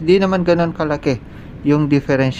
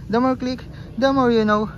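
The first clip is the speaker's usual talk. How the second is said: excited sign-off; 10 semitones higher than usual. Acted. Outro catchphrase sign-off.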